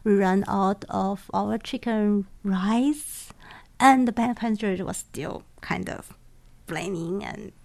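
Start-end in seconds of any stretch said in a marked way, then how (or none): 0.0-3.3 apologetic. Retold or imitated.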